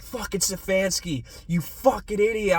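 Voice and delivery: high, rising angry insult at the coach; retold cursing. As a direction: build to a yell on idiot. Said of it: "cursing the Browns".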